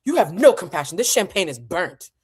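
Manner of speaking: lightly acted angry diva; Diane Carroll. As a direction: stress "no" with haughty indignation. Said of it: "just an angry Diane Carroll".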